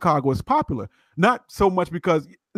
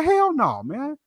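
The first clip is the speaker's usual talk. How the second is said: emphatic denial; 10 semitones higher, 4 dB quieter, much slower than usual. Retold or imitated. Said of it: "He said".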